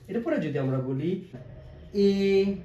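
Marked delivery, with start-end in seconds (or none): 2.1-2.6 এডুকেশন very slow, split এ, ডু, কে, শন; long pauses inside এডুকেশন; four isolated beats on এডুকেশন; broken into syllables. Shown as a demonstration. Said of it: "ভেঙে ভেঙে উচ্চারণ করে থাকি".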